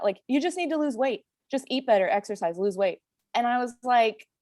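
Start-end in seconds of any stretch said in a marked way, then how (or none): 0.3-3.0 lightly mocked doctor, pitched higher; mildly patronizing imitation of a doctor's pat advice; condescending doctor. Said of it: "it felt condescending".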